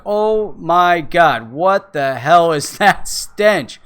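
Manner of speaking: slow, drawn-out disgust with a laugh; a stretched-out "oh my God" of mock revulsion. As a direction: recoil from a foul stench as you speak. Retold disgust at awful smell.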